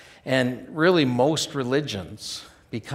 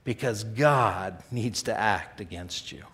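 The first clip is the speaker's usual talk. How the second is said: aching lament; slower than usual. Shown as a demonstration. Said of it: "you are saying".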